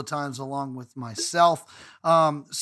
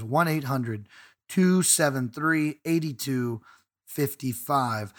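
the helpline number read again slowly, digit by digit; slow, clear repeat; 4 semitones lower, slower than usual. Shown as a demonstration. Host repeating the hotline number for listeners, slow and deliberate. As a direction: spell out each digit slowly so listeners can write it down. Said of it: "Again, that number is".

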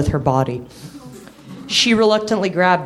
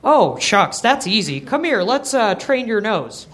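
put-on old dog voice; 4 semitones higher than usual. Old hound Chief voiced.

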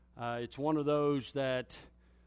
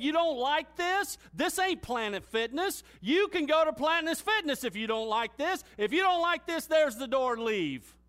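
higher, loud scolding yell dropping at the last word; imitating trainer yelling; 10 semitones higher, 5 dB louder than usual. Trainer yelling at struggling lifter to quit or push, loud scolding yell. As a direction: scold him loudly, then dismiss. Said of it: "and he's yelling at me".

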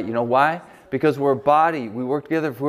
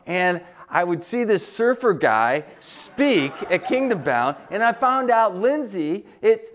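imitating the friend; 6 semitones higher than usual. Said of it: "came up to me and said".

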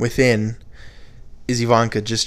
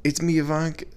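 softer, higher, tentative accent attempt; half-hearted put-on accent; attempted Ivanka accent; 4 semitones higher, 5 dB quieter than usual. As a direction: feel for a forgotten accent. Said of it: "Now I forgot her accent".

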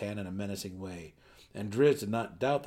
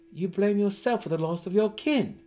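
growing louder and surer; gaining confidence; 11 semitones higher, 8 dB louder than usual. Acted. Driz confronting Belwer's guilt, louder and confident. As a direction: press the point with rising confidence. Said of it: "gaining volume as he gained confidence".

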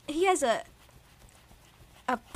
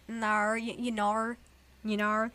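Aussie "no" with an r-coloured ending; Australian accent. Shown as a demonstration. Correcting a friend's attempt, Australian accent. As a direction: practise an Australian "nor". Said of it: "do an Australian accent".

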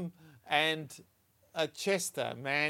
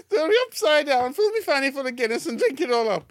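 high, loud Yorkshire outrage; Yorkshire accent; 11 semitones higher, 10 dB louder than usual. Acted. Wife repeats the stranger's threat to her husband, Yorkshire accent. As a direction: pile on the indignation in broad Yorkshire. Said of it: "the Yorkshire accent really makes it".

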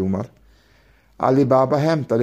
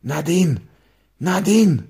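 calling higher across the yard, second call higher still; 5 semitones higher, slower than usual. A narrator's reading. Ali Baba calling his wife from the back yard, rising call. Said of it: "ropade han".

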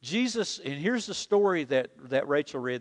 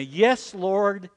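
leading the congregation line by line; slow, deliberate unison prayer; preacher leading a repeated prayer; call and response; slower than usual. Shown as a demonstration. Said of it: "Say that with me".

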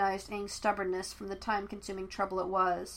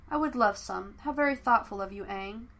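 courtly, frosty. Acted. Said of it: "with manners fit for a court society".

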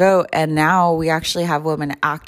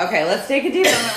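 giggling; 4 semitones higher, faster than usual. Real, not acted. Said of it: "we have a case of the giggles".

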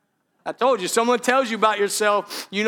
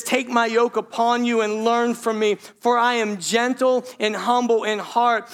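scripture proclamation; 2 semitones higher than usual. Real, not acted. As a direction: proclaim the verse with steady force. Reads scripture forcefully.

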